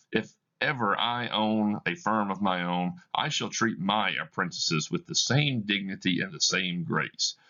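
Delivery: lightly voiced young apprentice, eager; an admiring young clerk gushing; a hint of a young man praising his master. Young clerk speaks warmly.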